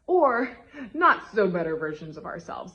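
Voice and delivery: words carried on a real laugh; laughing aside. Real, not acted. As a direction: laugh it off as a joke. Joking aside about worse selves.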